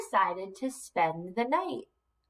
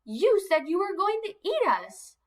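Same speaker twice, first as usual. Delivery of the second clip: little goat voice; 8 semitones higher than usual. Acted. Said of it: "asked the little goat".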